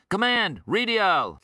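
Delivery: high, loud shout at the computer; shouted command. A narrator's reading. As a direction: shout it as an urgent order. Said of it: "Rhyme shouted".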